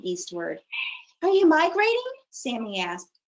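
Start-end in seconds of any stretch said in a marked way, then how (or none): 1.2-2.1 calling out. Acted. Sammy calls to dragonflies.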